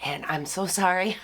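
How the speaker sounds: hoarse, worn-out sick voice; talking through a lost voice. Real, not acted. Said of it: "I've lost my voice".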